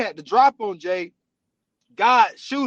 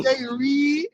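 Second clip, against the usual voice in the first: laughing; 7 semitones higher, 3 dB louder than usual. Real, not acted. Still laughing at the quote.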